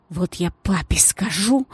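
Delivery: whispered furious hiss. Acted. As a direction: hiss it through the anger. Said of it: "прошипела". (яростный шёпот)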